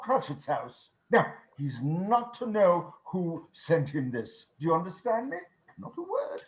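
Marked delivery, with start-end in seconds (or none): 5.8-6.4 hushed secret. Acted. Scrooge swears the boy to secrecy.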